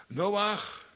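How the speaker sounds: high, loud call of the name Noach. Acted. Calling out to Noah.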